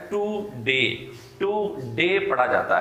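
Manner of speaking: "टू डे" split into two flat syllables, Pakistani style; Pakistani pronunciation. Shown as a demonstration. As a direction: say "टू डे" as two separate words, too-day. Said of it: "Pakistani accent में".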